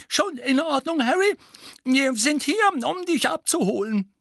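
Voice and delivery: a kind, hoarse call up the stairs; slightly hoarse voice. Acted. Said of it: "ein wenig heisere Stimme". (leicht heisere Stimme)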